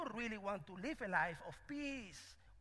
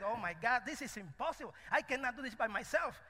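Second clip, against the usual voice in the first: despairing mouse; 4 semitones higher, 5 dB louder than usual. Acted.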